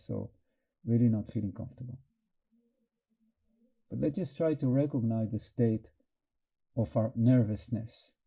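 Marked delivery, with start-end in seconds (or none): 3.9-8.1 calm, unhurried meditation guidance; guided meditation. Real, not acted. Teacher helping the group notice nervousness, in calm guided meditation. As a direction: guide their attention inward, leaving long pauses. Guides attention to inner state.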